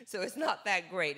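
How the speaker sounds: a laugh running through the words; self-deprecating chuckle through the line. Real, not acted. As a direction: laugh it off while you say it. Laughs about her Korean.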